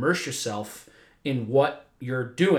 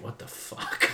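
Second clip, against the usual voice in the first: laughing whisper; 7 dB quieter, slower than usual. Retold or imitated. Imitating their shocked reaction.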